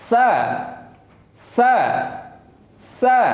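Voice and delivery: সা kept thin and light, the Arabic sād shown by teacher. Shown as a demonstration. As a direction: demonstrate a light পাতলা সা. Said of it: "আর সাটা হবে পাতলা".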